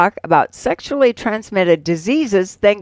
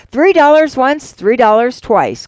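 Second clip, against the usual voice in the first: louder, higher bid count, punched; auctioneer's loud count; 4 semitones higher, 4 dB louder than usual. A narrator's reading. Auctioneer counting down a cheap bid, loud calling. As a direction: call it out hard, easing on the repeat.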